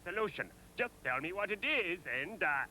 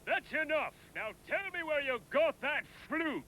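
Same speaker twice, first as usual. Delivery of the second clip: sharp demand from an angry king; 5 semitones higher than usual. Acted. King to shepherd, angrily. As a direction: cut him off angrily.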